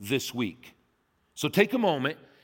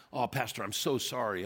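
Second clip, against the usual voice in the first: low, soft mock apology; softly imitating an apologetic owner; retold apology; 6 semitones lower, 7 dB quieter than usual. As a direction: quote a subdued apology.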